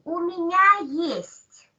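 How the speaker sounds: slow and clear for the class to repeat; slow model phrase. Shown as a demonstration. Teacher modelling the phrase slowly for students to repeat. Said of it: "Switch on your microphone and say".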